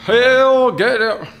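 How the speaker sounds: threatening. Pretend. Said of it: "Very threatening, very threatening".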